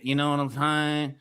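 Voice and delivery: lightly put-on country accent; a hint of country, stretching key words. Selling pink salt to Vic, lightly put-on country voice. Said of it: "I'll do it in the country voice now".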